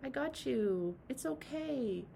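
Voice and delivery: gentle acted reassurance; soothing. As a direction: soothe someone who is crying. Soothes the crying alcoholic.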